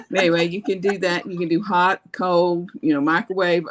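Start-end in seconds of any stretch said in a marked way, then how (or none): 0.1-1.2 laughing. Real, not acted. Laughing after chocolate confession.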